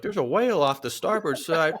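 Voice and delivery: loud, laughing boat announcer; laughing announcement. Retold or imitated. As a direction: shout it out while cracking up. Mock announcement with vomiting dad.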